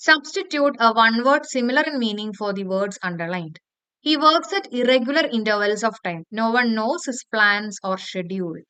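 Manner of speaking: slow, even exam read-out; reading the question slowly. Shown as a demonstration. Teacher reading a test question aloud to students, slow and even. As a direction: read each word out clearly for the class.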